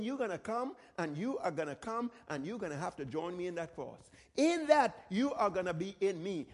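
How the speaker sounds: soft and low, an intimate promise; hushed Jesus voice. Retold or imitated. Jesus promising the disciples they will share his cross, hushed and low.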